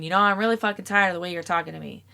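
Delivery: fast, fed-up snap at a partner; a quick, mild mock of an irritated gripe; harsh complaint. Partner complaining about tone, rushed and irritated. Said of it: "saying it like that is so much different than the previous".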